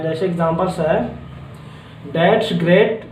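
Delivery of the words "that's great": that's great you stretched out word by word; slow teacher read of that's great you; slow model reading. Shown as a demonstration. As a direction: spell it out slowly for learners. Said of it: "जैसे आपको किसी को example देना है".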